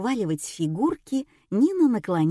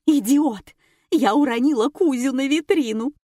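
much higher, louder, dragged-out scream; screaming accusation; 6 semitones higher, 5 dB louder than usual. A narrator's reading. Nina screaming at Gena who pushed her, full shriek. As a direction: shriek it at the top of your voice. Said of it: "заорала Нина".

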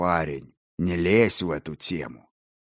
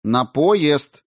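louder, higher firm call; raised voice; 6 semitones higher, 6 dB louder than usual. A narrator's reading. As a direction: raise the voice to insist. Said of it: "позволил себе повысить голос".

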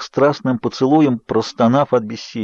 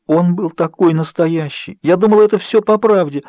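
anguished crying; 7 semitones higher than usual. A narrator's reading. Bella crying to Edward about the real dream, anguished. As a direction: cry it out in anguish.

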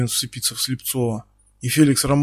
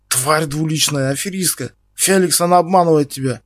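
angry yelling; 3 semitones higher, 4 dB louder than usual. Acted. Стас кричит, обвиняя Ксюшу перед Феликсом. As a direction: denounce her to Felix. Stas yells back, appeals to Felix.

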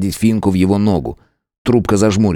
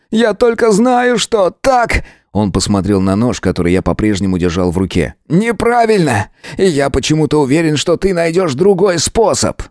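much higher, pleading; Misha, tearful plea; 8 semitones higher than usual. A narrator's reading. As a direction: beg him to find another way. Миша сквозь слёзы убеждает. (Миша, со слезами)

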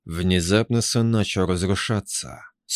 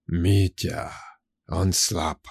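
serpent whisper; much slower than usual. Acted. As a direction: hiss it slowly like a snake. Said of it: "шептал голос, словно змеиный шёпот".

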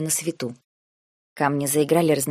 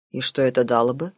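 cold; 4 semitones lower than usual. A narrator's reading. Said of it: "холодно произнёс дядя".

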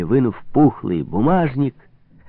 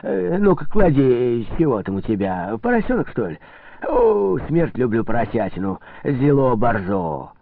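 a lightly voiced priest eyeing the roast piglet with relish; greedy delight; 2 semitones higher than usual. Priest at the table, greeting the roast piglet with relish.

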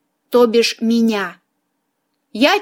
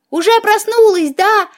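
high, excited cry of a cat; high-pitched shouting kitty; cat's yell; 9 semitones higher than usual. A narrator's reading. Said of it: "заорал котик".

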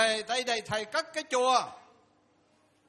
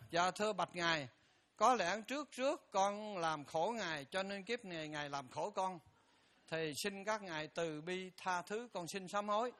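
humble soft prayer; 2 semitones lower, 5 dB quieter than usual. Shown as a demonstration. Daily prayer to enemy's photo.

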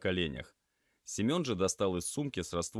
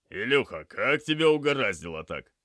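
raised, higher voice to a patient; loud questioning; 5 semitones higher, 8 dB louder than usual. Acted. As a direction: keep a dazed patient talking. Medic keeping injured patient talking.

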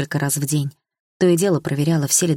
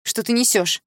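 mother shouting; 6 semitones higher than usual. A narrator's reading. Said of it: "закричала мама".

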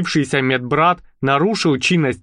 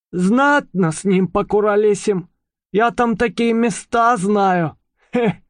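mouse voice; 7 semitones higher than usual. Acted. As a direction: savour it as the cheeky mouse. Mouse character continues. (лукавый голос мыши)

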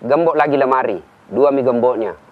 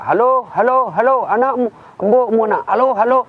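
high-pitched hollering into the receiver; mock phone yelling; 9 semitones higher than usual. Villager hollering into a wartel phone, mock yelling. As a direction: holler hello like a clueless villager. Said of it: "langsung teriak".

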